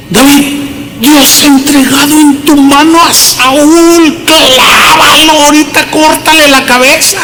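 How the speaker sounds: acted high-pitched urging; urgent urging. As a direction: egg David on in an imitated soldier's voice. Acts out soldier urging David to kill.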